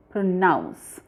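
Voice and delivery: "pronounce" with an ou sound, pro-NOUNCE; demonstrated pronunciation. Shown as a demonstration. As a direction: model "pronounce" carefully, ou as in out. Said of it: "You will pronounce it like this".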